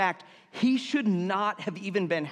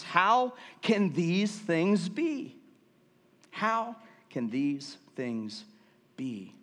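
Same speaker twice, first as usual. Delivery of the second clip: bewildered Nicodemus; 3 semitones higher, much slower than usual. Acted. Preacher voicing Nicodemus, baffled, asking Jesus slowly. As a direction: let it stretch out in plain disbelief.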